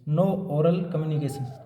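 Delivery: very slow, word by word, for note-taking; slow dictation. Shown as a demonstration. Teacher dictating a heading for students to copy, very slow. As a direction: spell it out slowly so students can write.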